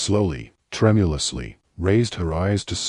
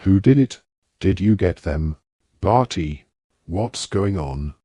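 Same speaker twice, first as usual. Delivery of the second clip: alarmed questions. Acted. Bagman bursts in, alarmed.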